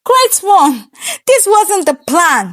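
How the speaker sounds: tearful, high pleading; broken down pleading. Acted. King begs the keeper to spare his daughter, breaking down. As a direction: beg through tears. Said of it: "Nnamdi broke down".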